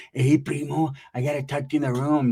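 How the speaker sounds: lightly put-on voice of his cousin; imitating cousin's talk. Cousin asking him into the room, lightly mimicked. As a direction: mimic how she talks, drawing it out a little. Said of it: "that's how she talks".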